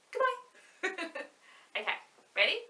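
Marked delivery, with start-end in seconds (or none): 0.1-1.2 quick squeaky goodbye; snappy and high for the kids; fast goodbye. Shown as a demonstration. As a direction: rattle it off in a blink. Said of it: "Now let's say it really fast".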